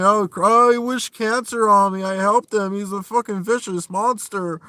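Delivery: high, loud whiny wail of a fake victim; mocking the troll. Vlogger mocks the troll playing victim, loud high whine. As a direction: overplay his victim act, shrill and loud. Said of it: "he wants to come back and".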